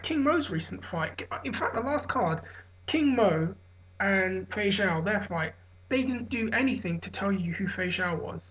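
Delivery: sluggish, hungover talk; tired, slurring a little. Real, not acted. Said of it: "I'm really hungover right now".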